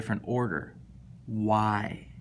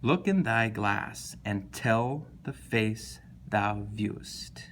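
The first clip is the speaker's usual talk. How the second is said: slow verse reading; slower than usual. Shown as a demonstration. Teacher reading a sonnet line aloud, slow and hushed. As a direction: let the line settle into a hush. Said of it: "what words are emphasized?".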